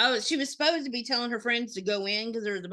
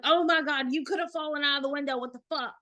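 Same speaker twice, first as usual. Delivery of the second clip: retold freak-out; 5 semitones higher, faster than usual. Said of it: "freaked out and was like".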